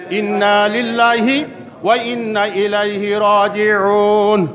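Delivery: slow, measured recitation; recited invocation. Shown as a demonstration. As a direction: intone it slowly like a prayer. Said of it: "কি বলতে হবে?". (ধীরে ধীরে তিলাওয়াতের সুরে)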